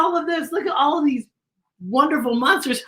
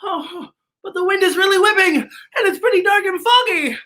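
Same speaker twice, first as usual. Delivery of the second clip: excited spooky; 10 semitones higher than usual. Shown as a demonstration. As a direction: build the spooky excitement for the child.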